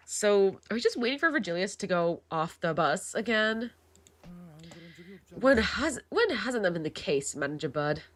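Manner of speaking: put-on a light British accent, slipping in unnoticed; lightly voiced British accent. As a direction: read the line in a casual British accent. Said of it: "Wait, why am I British?".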